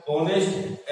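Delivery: ऑनेस्ट begun on the vowel O, no H; silent H. Shown as a demonstration. Teacher showing students the vowel sound, ऑनेस्ट with silent H. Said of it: "इसमें देखो एच silent".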